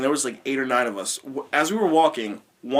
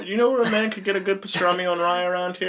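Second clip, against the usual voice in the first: lightly acted chatty stranger, quick and higher; casual small talk; 5 semitones higher, faster than usual. Imagined haunted-house grabber making small talk, mock casual. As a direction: ask it as everyday chit-chat. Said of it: "just a normal conversation".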